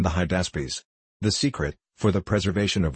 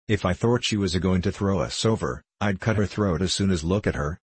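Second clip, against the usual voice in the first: ordinary delivery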